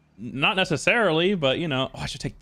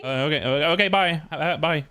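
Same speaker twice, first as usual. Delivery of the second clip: nervous. Real, not acted. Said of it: "You sound so nervous".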